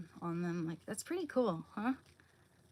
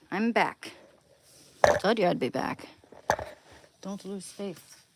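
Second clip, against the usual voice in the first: mock triumphant; 4 semitones higher, 8 dB louder than usual. Triumphant return to the camera.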